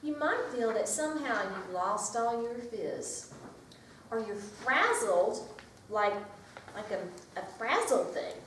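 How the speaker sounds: lively picture-book read-aloud; reading to children. Acted. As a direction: read it to a circle of preschoolers.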